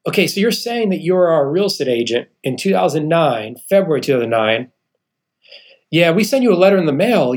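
a hint of the polite phone agent; the bank clerk checking his account; bank lady voice. Bank woman tells him credit cut.

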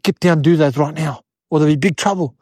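low, firm order; stern uncle. Acted. Uncle orders nephew to obey Big Joe, stern. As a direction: lay down the law in a low voice.

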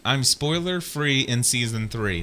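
I'm spoiler free in season three said slowly with weight on spoiler; slow proud motto, stress on spoiler; slogan said slowly. Shown as a demonstration. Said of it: "my little saying".

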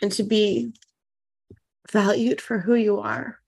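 tearful, voice catching; holding back tears while speaking; crying. Real, not acted. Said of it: "So I'm sorry I'm so emotional".

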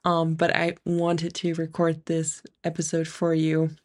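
blocked nose from an ear infection; nasal voice. Real, not acted. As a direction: speak through a stuffy nose. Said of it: "So I might sound a little bit nasal today".

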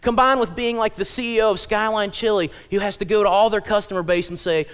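ordinary talk

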